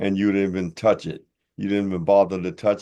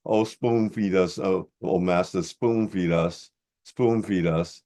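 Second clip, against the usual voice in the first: mock begging followers; slower than usual. Mocking followers begging to be fed.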